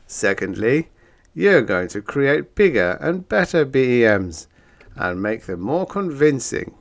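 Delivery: loud, gruff storybook monster. Acted. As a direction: boom it out like a smug monster. Monbeast voiced.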